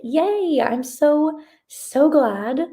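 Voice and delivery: high, loud, delighted squeal of welcome; excited cheer. Real, not acted. Streamer welcoming a viewer to a first sprint, excited. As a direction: burst out gladly, pitched well up.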